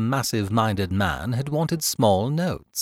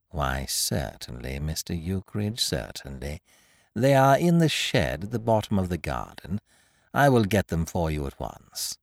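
a lightly voiced fawning landlord; fawning babble to his paying tenant; ingratiating; 7 semitones lower, 3 dB quieter than usual. A narrator's reading. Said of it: "babbling ingratiatingly".

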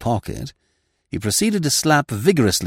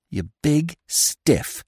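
scornful aside; 6 semitones higher, much slower than usual. Acted. Peavy's private scornful thought.

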